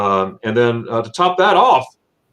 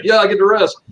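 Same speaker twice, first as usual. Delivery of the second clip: higher, louder imitated delight; gladly agreeing wife; 9 semitones higher, 5 dB louder than usual. Wife told she can rest while he takes kids, imitated delight. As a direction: play a wife all too happy to agree.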